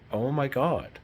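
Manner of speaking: the penny drops; startled realization. Retold or imitated. Seeing her fake tears, a startled oh my God. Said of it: "I went".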